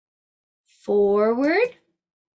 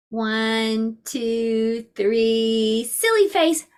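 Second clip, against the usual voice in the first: playful countdown; much slower than usual. Shown as a demonstration. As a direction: build to a bright call on silly face. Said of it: "then you make a silly face".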